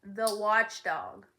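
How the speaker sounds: scared villager shouting the name; frightened shout. Acted. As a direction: cry it out in fright. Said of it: "shouted another".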